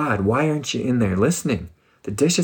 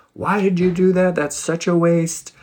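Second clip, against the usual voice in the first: higher, louder indignant outburst; upset Judas; 7 semitones higher, 4 dB louder than usual. Retold or imitated. Judas upset about the wasted perfume, indignant and loud. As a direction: scold her for wasting it. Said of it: "he got upset and he's like".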